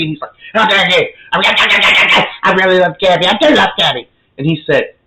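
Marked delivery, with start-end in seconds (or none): 0.5-4.1 acted indignant outburst, higher voice; getting madder. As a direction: protest hotly, stretching out the declaration of love. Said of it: "he just kept getting madder and madder".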